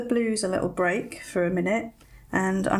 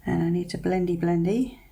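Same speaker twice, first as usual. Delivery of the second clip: tense, breath held while concentrating; holding breath. Real, not acted. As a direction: hold your breath mid-sentence. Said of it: "holding my breath a bit here".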